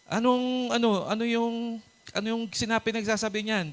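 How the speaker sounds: high, insistent question; pressing the soldiers for answers; curious David. Acted. David voiced asking. (mataas at mapilit na tanong)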